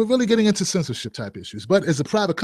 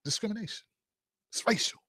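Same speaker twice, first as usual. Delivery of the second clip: mock outrage; 14 dB quieter than usual. Mock outrage, drops to murmur.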